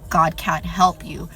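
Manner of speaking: slow, lightly voiced demon reply; demon, retold. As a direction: stretch out the demon's taunt. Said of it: "And she's like".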